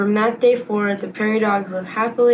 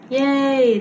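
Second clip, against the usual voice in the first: crowd cheer; 5 semitones higher than usual. Acted. The crowd cheering for Pip's idea. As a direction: cheer it out together. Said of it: "the crowd cheered".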